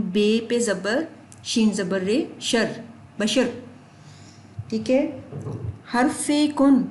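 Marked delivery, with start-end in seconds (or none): 0.0-3.5 بشر built up as بے زبر، شر, slowly; spelling out syllables. Shown as a demonstration. Teacher explaining بشر aloud to students, syllable by syllable. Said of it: "میں آپ کو زبانی بتاتی ہوں".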